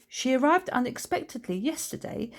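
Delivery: high, lilting hostess voice; introducing her sister. Acted. Woman introduces her adorable sister to Morag, high effusive voice. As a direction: present her proudly, pitch climbing.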